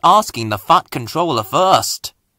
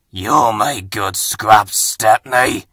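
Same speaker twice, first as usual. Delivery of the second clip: menacing diesels; 3 semitones lower, slower than usual. Acted. Diesels threaten Stepney.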